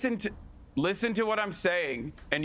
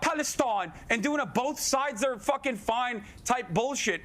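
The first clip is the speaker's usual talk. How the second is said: heated rant. Real, not acted. Replayed clip of rant.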